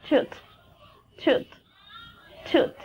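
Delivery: "tooth" said alone with its final th; th example word. Shown as a demonstration. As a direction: model "tooth" slowly spaced for learners. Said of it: "phoneme, like".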